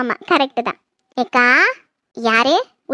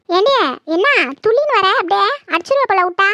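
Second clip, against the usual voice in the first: higher, sharp scolding of the daughter-in-law; angry scolding; 5 semitones higher than usual. Acted. Mother-in-law scolding her daughter-in-law, angry raised voice. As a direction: tell her off hotly.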